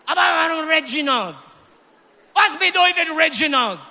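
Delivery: mock-exasperated child's questioning; protesting question. Retold protest to his father.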